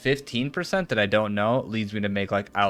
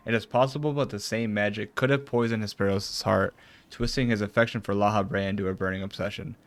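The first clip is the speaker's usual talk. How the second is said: even, measured read of formal dialogue; reading game dialogue. Acted. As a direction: read the character's lines evenly, lightly dramatised. Reads game dialogue aloud.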